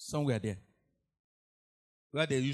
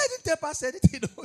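high loud protest, breaking into a laugh; loud denial; 12 semitones higher, 8 dB louder, faster than usual. Retold or imitated. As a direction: deny it loudly, nearly laughing. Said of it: "The girl was denying".

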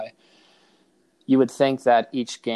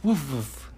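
playful woof; 3 semitones higher than usual. Shown as a demonstration. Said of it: "What does the doggy say?".

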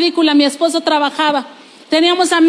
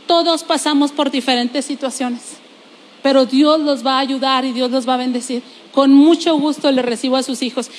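kind man quoted; 4 semitones lower than usual. Retold or imitated. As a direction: quote the man gently, with a touch of calm. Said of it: "aquel hombre me dijo".

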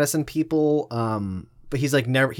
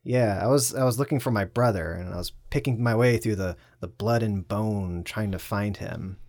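Norm Macdonald impression; 4 semitones lower, 4 dB quieter than usual. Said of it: "his timing with that and his inflections".

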